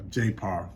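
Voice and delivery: J par as one word, "jay par"; J par, spoken as a name not letters. Shown as a demonstration. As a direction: run the letters together into J par. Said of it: "let's say it that way".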